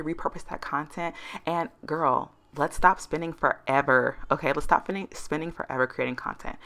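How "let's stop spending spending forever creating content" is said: tripping over repeated words; stuttering. Real, not acted. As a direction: stumble and restart mid-phrase while wrapping up. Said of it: "'cause I'm stuttering now".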